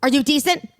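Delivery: a hint of her knocking and calling; imitating a prim woman. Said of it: "She's like".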